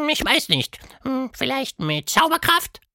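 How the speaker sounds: sehr hohe, leise Monsterstimme; grübelnd nachfragen; Quatschmonster, nachdenklich. A narrator's reading. (Quatschhund überlegt laut)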